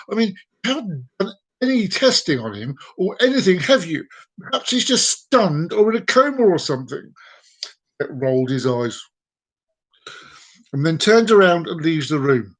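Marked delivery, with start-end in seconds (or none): 0.1-7.1 mildly indignant, higher-pitched plea; protesting. Acted. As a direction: argue like a disbelieving pet owner. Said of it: "the woman protests".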